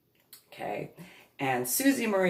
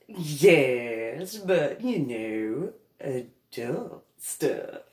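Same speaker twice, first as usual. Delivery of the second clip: coy insinuation; 2 semitones lower, much slower than usual. Retold or imitated. Cousin insisting coyly.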